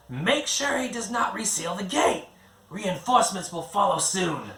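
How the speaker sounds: high, commanding alien voice issuing orders; crisp, urgent commands from a high-voiced handler; Giseldra giving orders. A narrator's reading. Giseldra orders Ganon through the firefight, high and commanding. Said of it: "Giseldra continued".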